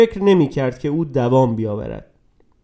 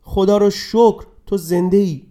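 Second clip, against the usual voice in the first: tearful relief; 4 semitones higher than usual. Acted. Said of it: "گریه کنان پسرش را در آغوش گرفت".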